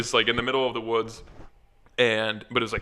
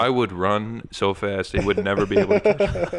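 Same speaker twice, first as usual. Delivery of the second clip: mock cocky thought. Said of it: "I'm just like".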